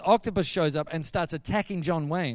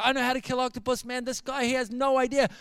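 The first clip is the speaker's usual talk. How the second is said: higher-pitched, urgent boasting; worked-up insistence; 6 semitones higher than usual. Retold or imitated. Gary running in with a stick to save him, worked up. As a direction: insist breathlessly that only you can help. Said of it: "He's gone hysterical".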